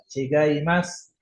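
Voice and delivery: Chigaimasu slowly, ending in "mas"; silent u. Shown as a demonstration. Teacher demonstrating a word, silent u. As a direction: cut the final u from Chigaimasu. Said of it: "U-nya nggak dibaca".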